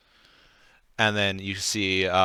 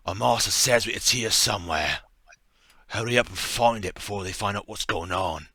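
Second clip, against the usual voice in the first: henchman voice. Acted. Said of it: "just gonna say it in a normal voice".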